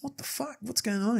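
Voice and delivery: high, squeaky what-the-fuck, half laughing at himself; mock outraged disbelief. Retelling the dentist visit to a friend, mock shocked outrage. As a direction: act baffled and cheated, pitch shooting up. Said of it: "And I'm like".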